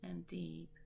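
measured poem reading with deliberate pauses; poetry recital. Acted. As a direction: recite it line by line, letting each phrase rest. Recites second companion poem.

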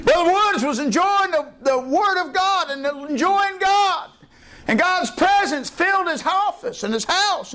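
high laughing delight; high delighted laughter; joyful laugh into words. Real, not acted. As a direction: laugh and carry the joy on. Preacher laughs recalling God's presence.

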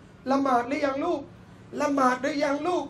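slow, unforced asking; lightly voiced caring parent; gentle parental question. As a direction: ask your child kindly, taking your time. Voices parent asking child about prayer.

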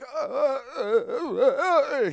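high, flustered stammering; imitating a panicked neighbour; chickening out. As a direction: stammer wordlessly in a hammed-up panic. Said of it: "dude, he pussied out".

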